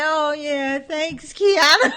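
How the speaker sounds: high, loud happy greeting; excited thanks at the door. Retold or imitated. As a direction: call out thanks brightly.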